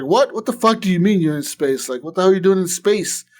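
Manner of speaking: imitated stunned outburst; retold shock. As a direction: react like the news makes no sense. Panam shocked at space news.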